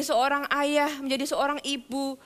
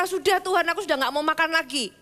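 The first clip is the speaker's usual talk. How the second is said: stubborn whining; 3 semitones higher than usual. Acted. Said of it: "Elia bisa berkata".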